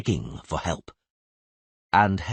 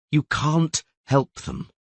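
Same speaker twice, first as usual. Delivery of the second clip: dull voice; 7 semitones higher, slower than usual. Acted. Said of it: "replied Dandelion in a dull voice".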